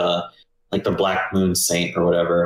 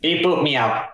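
higher-pitched playful beep, boop, meow; robot noises ending in a cat's meow; mock robot beeps with meow; 6 semitones higher than usual. Player carries on the one robot joke, playful beeps.

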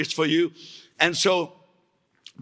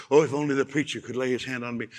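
mock pleading churchgoer; 4 semitones lower, faster than usual.

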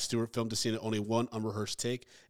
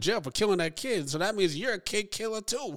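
mock gruff bartender; 5 semitones higher than usual. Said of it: "the guy's like".

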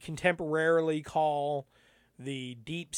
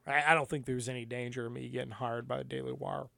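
forcing a deep voice; 3 semitones lower, 5 dB quieter, faster than usual. Shown as a demonstration. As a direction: fake deep voice, fast. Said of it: "a really fake deep voice".

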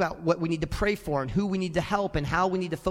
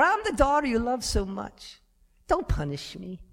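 pleading daughter; 3 semitones higher than usual. Retold or imitated.

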